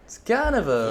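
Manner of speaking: trying a Southern accent; Southern accent attempt. Shown as a demonstration. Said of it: "how Southern would".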